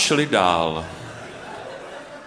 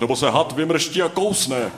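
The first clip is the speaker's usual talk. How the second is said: higher-pitched caution; warning; 6 semitones higher than usual. A narrator's reading. Bird Noach warns of the snake striking, warning. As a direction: warn of the danger, voice raised. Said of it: "varoval pták Noach".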